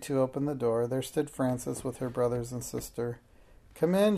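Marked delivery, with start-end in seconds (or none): 3.8-4.2 high, loud eager call; a child calling friends in, bursting with excitement; eager cry. A narrator's reading. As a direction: call them in, thrilled. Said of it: "she cried eagerly".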